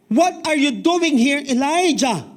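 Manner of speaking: God's voice. Acted. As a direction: ask it slowly like God calling him out. God questions Elijah in Bible quote.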